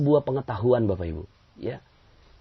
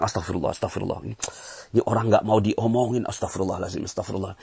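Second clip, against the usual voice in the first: low grumbling reproach at someone; grumbling, accusing istighfar; blaming astagfirullah; 3 semitones lower than usual. Shown as a demonstration. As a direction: mutter it, blaming the other person. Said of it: "sambil nyalahin orang".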